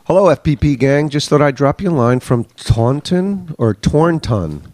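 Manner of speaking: lightly put-on British accent; mock English accent for a listener's letter; a singer's impression. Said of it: "I get to sound like a singer again".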